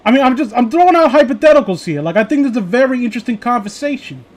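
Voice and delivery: a hint of an unhinged boss; lightly voiced director. Director ranting at the intern, a touch heightened.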